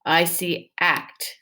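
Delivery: drawn-out "act", each sound stretched slowly. Shown as a demonstration. Teacher sounding out a word for the class, slowly. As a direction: break the word into parts, slowly. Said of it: "crash the parts together".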